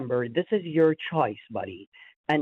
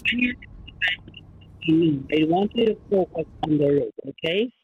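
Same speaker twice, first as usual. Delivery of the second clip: eating while talking; 2 semitones higher, faster than usual. Real, not acted. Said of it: "he sounded like he was eating something".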